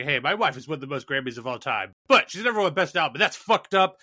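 lightly voiced rapper complaining on stage; hammed-up acceptance speech whine; mock rapper rant. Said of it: "just be like".

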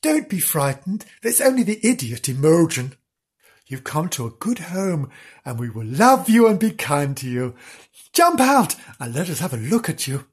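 kindly, unhurried coaxing; gentle reassurance. Acted. Sister coaxing the new puppy out, gently. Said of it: "in a very gentle voice".

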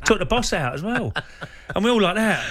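laughing through the words, high and loud. Real, not acted. The speaker on air recalling the tackle on Wenger, laughing as he speaks. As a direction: tell it while cracking up. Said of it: "I started laughing, giggling".

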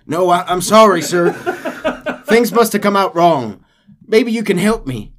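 loud, high mocking captain; taunting captain. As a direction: needle the gringo, then backpedal laughing.

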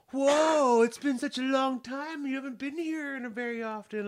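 high, bright surprise from the cashier; a hint of a chipper cashier; cheery drive-through worker.

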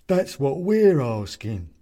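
sinister hooded stranger; hooded figure. A narrator's reading. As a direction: speak like a menacing cloaked figure.

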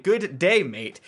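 retrying the Australian greeting with a rise on day; a hammed-up Aussie good day, mate; Australian accent. Shown as a demonstration. Host redoes the Australian greeting for co-host, a hammed-up Aussie accent. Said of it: "all right, no, good day".

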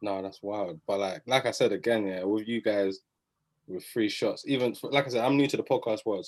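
ordinary delivery

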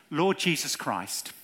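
slow, measured prayer line; phrase by phrase. Shown as a demonstration. Preacher leads newcomers in prayer, slow phrase by phrase. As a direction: say it slowly for others to echo. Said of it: "I'll say it phrase by phrase".

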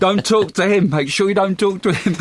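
mock stern warning.

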